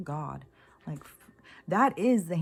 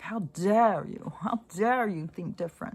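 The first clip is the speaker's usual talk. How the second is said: mock outrage.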